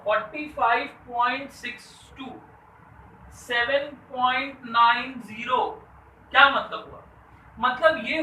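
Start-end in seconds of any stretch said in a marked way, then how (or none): 0.0-5.6 deliberate, emphatic number reading with each decimal digit separate; reading demonstration. Shown as a demonstration. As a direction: show how to read it, saying "नाइन ज़ीरो" as two distinct words. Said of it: "कि मैं कैसे पढ़ रहा हूँ". (ज़ोर देकर, अंक अलग-अलग पढ़ते हुए)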